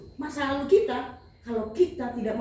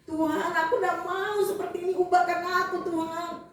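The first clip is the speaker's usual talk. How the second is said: higher-pitched mock crying plea; imitated tearful prayer; 4 semitones higher than usual. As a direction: re-enact a pleading, weepy prayer. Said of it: "Saya sering menangis".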